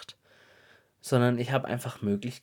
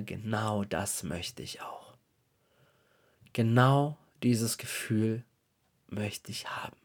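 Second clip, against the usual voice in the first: hushed inner thought; slower than usual. Retold or imitated. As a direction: breathe it like a secret longing. Inner wish, dreamy thought. (leise geflüstert, sehnsüchtig)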